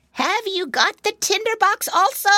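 high, loud witch cry; old witch voice. Acted. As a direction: screech down like an eager witch. Witch calls down to soldier.

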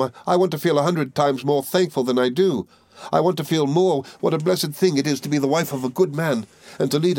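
high, imploring grief; agonised supplication. A narrator's reading. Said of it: "in its agony and grief".

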